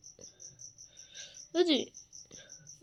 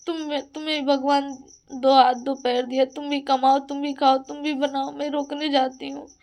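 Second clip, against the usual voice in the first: louder, hammering each demand; loud scolding; 4 dB louder than usual. Real, not acted. Telling jealous people to earn their own, loud scolding. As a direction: hit each line hard like a lecture. Ranting at people who envy her.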